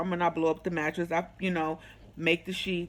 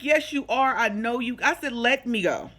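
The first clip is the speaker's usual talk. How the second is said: higher-pitched, insistent comeback; retold accusation; 4 semitones higher than usual. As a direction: call him out firmly. Retells argument with ex.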